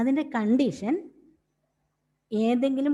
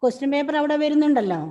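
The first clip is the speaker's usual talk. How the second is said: calling out; 4 semitones higher, 5 dB louder than usual. Real, not acted. Teacher calling a student online.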